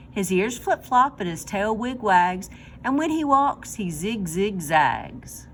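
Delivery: slow, sing-song poem reading. Acted. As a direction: read it like a children's rhyme. Reads poem to children.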